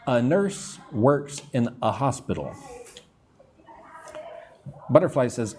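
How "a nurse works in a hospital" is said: "A" and "a" as short uh; teacher demo with "a" reduced to uh; reduced article A. Shown as a demonstration. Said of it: "say it like a".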